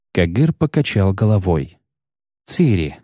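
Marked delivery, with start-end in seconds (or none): 2.5-3.0 gentle. A narrator's reading. Knight answers the girl who told him to flee, gently. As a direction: say the name tenderly, understated. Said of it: "мягко проговорил он".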